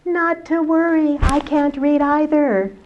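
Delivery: reassuring elder. Acted. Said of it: "the elder smiled again and he says".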